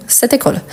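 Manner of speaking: "Cette école" linked as one word; liaison. Shown as a demonstration. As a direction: sound the t of "Cette" onto the start of "école". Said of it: "On fait la liaison automatiquement".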